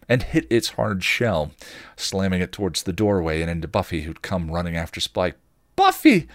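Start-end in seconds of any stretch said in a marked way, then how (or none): 5.8-6.3 very high, loud shriek of a name; yelled warning. A narrator's reading. Dawn yelling a warning to Buffy, shrill. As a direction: scream it to warn her. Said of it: "Dawn yelled".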